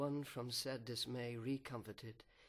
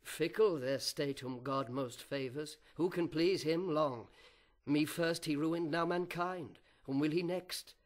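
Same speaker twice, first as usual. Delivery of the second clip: triumphant adversary; 2 semitones higher, 5 dB louder than usual. Acted. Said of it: "lest the adversary triumph and say".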